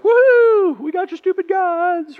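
high, loud mock whoop of triumph; gloating cheer. Israel taunting the Philistines over their gods, gloating whoop. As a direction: crow it like a frat prank win. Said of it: "Israel's like".

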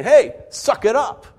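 mock the careless comforter; mocking dismissal. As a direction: comforter telling a grieving friend to just get over it. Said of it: "and you're saying".

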